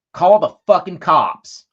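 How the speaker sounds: a loud, slow retold yell. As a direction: belt it out slowly, as she did across the street. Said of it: "his wife yelling this".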